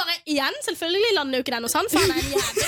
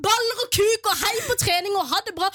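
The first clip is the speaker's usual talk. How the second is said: retold shout; 4 semitones higher than usual. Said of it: "jeg roper over hele stua".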